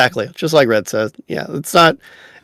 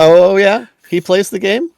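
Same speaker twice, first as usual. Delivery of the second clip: feigned surprise, higher rising questions; facetious; 5 semitones higher than usual. Pretend. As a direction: play dumb, pretending you had no idea. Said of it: "Des is being so facetious tonight".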